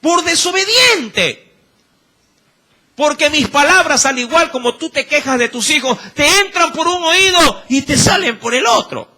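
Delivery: lightly voiced God scolding. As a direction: speak as God losing patience. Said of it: "Dios ... dice".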